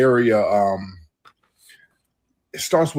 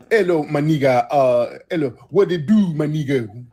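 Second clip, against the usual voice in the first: mock jive greeting; 3 semitones higher than usual. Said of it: "talk F B A Ebonics".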